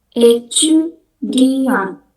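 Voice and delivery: étudiant dibaca sangat pelan tanpa T; étudiant, suku kata dieja lambat; silent final T. Shown as a demonstration. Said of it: "Huruf T terakhir tidak dibaca". (étudiant pelan tanpa T)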